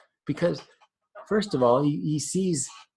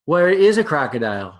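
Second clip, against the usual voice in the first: lightly voiced excited young elephant; eager baby elephant; 5 dB louder than usual. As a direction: play the curious baby elephant.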